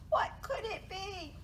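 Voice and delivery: high, wondering mouse voice; high-pitched storybook puzzlement; startled mouse. A narrator's reading. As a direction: ask it high, like a little mouse. Mouse wonders after squeaking.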